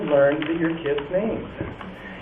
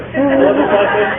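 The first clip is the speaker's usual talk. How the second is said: gift reaction; 9 semitones higher, 6 dB louder than usual. Retold or imitated. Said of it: "I'm like, okay".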